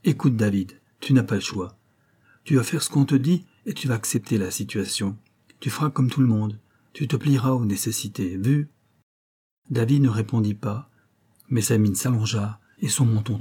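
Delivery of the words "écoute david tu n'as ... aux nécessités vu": a touch of firmness, steady and even; firm tone. Acted. Odette settles the matter with the boy in a mildly firm tone. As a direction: lay down the law gently but without give. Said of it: "d'un ton ferme".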